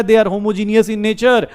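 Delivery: slow, drawn-out dictation; dictating. Real, not acted. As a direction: read it out slowly for note-takers. Dictating notes for students to write.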